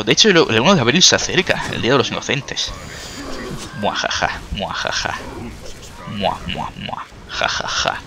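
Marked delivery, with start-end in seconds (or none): 3.8-5.2 deep whispered villain cackle; evil laugh. Pretend. Evil laugh after April Fools. 6.2-8.0 whispered evil cackle fading out; sinister breathy chuckle; mad scientist laugh. Pretend.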